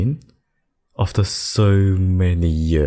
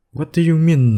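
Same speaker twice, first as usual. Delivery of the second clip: high-pitched, incredulous question; affronted disbelief; 11 semitones higher than usual. Acted. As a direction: react as if refusal is unthinkable. Demon King is refused.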